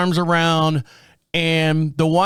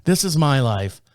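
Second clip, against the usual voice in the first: deadpan. Retold or imitated. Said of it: "dead at the camera here".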